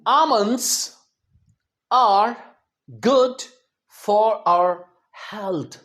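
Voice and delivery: slow and deliberate; example sentence. Shown as a demonstration. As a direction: read each word clearly. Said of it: "So sentence है". (धीरे-धीरे साफ़ बोला गया वाक्य)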